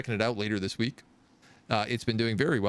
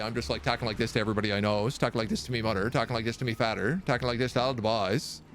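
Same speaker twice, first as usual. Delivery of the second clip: Newfoundland accent. Shown as a demonstration. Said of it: "not be able to lose the accent".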